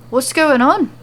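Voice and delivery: exasperated at the interruptions; frustrated. Acted. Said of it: "perplexed and frustrated".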